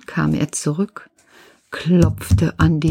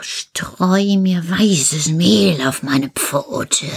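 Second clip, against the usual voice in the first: wolf's demand; much slower than usual. Acted.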